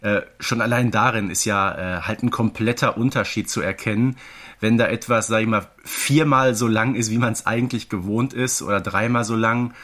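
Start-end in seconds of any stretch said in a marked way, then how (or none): none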